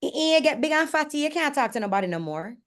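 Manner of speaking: lightly voiced guard, high at the start; blunt security guard. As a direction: imitate a guard saying it straight to someone's face. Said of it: "he looks me dead in the face and go".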